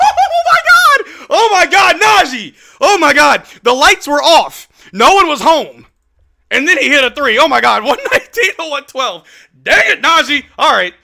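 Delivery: high, loud, overjoyed shouting; screaming in disbelief; ecstatic yelling. Real, not acted. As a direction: lose it over the big shot. Erupts after shot falls.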